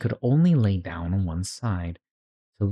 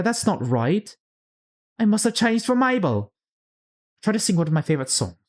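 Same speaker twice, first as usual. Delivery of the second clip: put-on much higher, puzzled little-girl voice; bewildered Alice; 4 semitones higher than usual. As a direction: wonder aloud who she is, high and lost. Alice voiced in read story.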